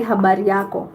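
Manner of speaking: Habari yako said as a clear model; teaching a greeting. Shown as a demonstration. Mom teaching viewers the Kiswahili greeting. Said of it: "we say".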